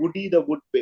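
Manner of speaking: ordinary delivery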